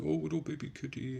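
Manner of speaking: put-on high-pitched cooing baby talk. Streamer cooing to a friend's cat on a call, baby voice. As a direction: coo at a pet in a high baby voice. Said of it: "I used my baby voice".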